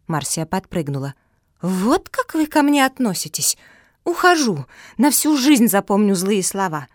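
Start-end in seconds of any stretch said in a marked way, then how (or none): 1.6-6.9 much higher, louder hurt yell; offended outburst. Acted. Offended Marsia shouts at everyone, high and loud. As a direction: storm off shouting your hurt.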